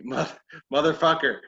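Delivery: heated, emphatic pleading rant; exasperated demand, playfully overdone; mock arguing. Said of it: "I started arguing with him".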